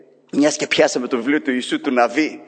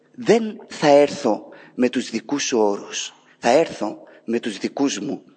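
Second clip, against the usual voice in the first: God's terms; 4 semitones lower, slower than usual. Acted. God telling people he comes on his terms, slow firm. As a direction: lay down the terms slowly and firmly. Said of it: "Αυτός είναι ο Θεός".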